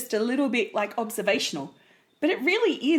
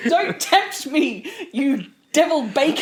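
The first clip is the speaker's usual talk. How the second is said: mock tempted; 3 semitones higher than usual.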